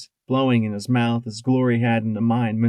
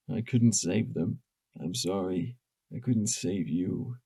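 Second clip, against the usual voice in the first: soft broken murmur; tearful whisper; 3 semitones lower, 6 dB quieter than usual. A narrator's reading. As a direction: whisper through tears. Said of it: "he whispered".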